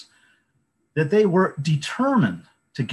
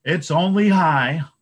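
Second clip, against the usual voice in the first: slightly higher, louder goat bleat; 6 semitones higher, 7 dB louder than usual. A narrator's reading. Second goat answers the troll with a light bleat. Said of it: "the second billy goat bleated".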